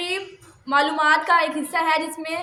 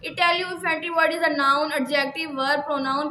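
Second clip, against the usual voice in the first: slow dictation reading; much slower than usual. Shown as a demonstration. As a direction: read each word slowly for students to copy.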